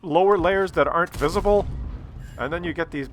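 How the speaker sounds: light mock of a teen girl; imitating the girl. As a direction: chatter it like a carefree girl.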